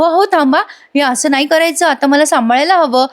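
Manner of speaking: lightly acted wifely protest; alarmed protest. Wife halts husband spinning her around.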